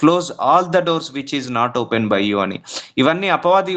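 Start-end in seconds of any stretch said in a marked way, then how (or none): 0.0-2.4 quoted prayer. Shown as a demonstration. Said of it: "నువ్వు prayer చేసుకోవాలి".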